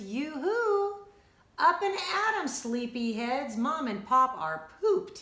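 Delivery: high, loud wake-up call. Acted. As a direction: rouse the sleepy kids. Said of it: "he said".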